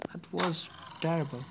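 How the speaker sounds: breathy whispered aside. Real, not acted. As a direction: whisper it to yourself. Muttered to self after failing.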